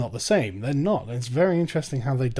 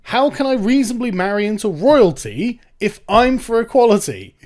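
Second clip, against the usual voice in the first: mock protest; 5 semitones higher, 5 dB louder than usual. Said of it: "You would think a feminist would say".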